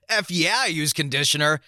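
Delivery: mock-loud overexcited exclamation; exclaimed. Narrator blurting to the girl, mildly hammed-up exclamation. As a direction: blurt it far too eagerly. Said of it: "and I exclaimed".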